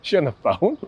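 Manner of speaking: high-pitched mock questioning; hammed-up high voice; bad impersonation. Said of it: "that was the worst impersonation".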